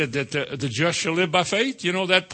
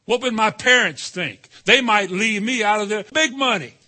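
anxious; 6 semitones higher, 4 dB louder than usual. Retold or imitated. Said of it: "voicing worried believer".

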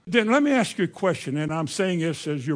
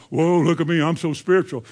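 mock Mister Holy; 2 semitones lower than usual. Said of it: "try to be Mister Holy".

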